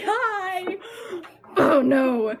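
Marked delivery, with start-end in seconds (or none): 0.0-0.8 high, chirpy cat-with-a-gift hello; squeaky, drawn-up little pet voice; proud cat greeting. Acted. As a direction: greet your owner like a pleased cat. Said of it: "just bringing those to my doorstep, like".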